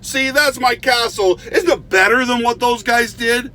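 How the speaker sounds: high, loud bragging voice; boastful show-off. Retold or imitated. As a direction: crow over the tiny bucket castle like it's a masterpiece. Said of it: "gets a little leaf and goes".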